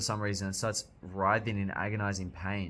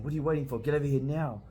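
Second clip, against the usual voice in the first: higher, louder rough call to hurry; Guts calling out; 6 semitones higher, 3 dB louder, faster than usual. Acted. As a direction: bark the order like a swordsman. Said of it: "this is Gut saying".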